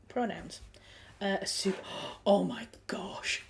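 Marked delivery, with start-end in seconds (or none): 2.0-3.4 slow, airy gasp of amazement; real delighted surprise. Real, not acted. Streamer spotting a fellow Supernatural fan, gasping surprise. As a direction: gasp it out, drawn-out and thrilled.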